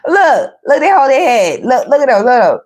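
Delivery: cracking up while pointing; laughing. Real, not acted. Reader laughing at the cards, giggling. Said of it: "Y'all got people acting stupid".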